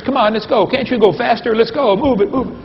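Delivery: put-on high, eager kid yell urging speed; mock kids' yelling. Kids on merry-go-round urging football players, high eager yell. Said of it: "They're screaming at the football players".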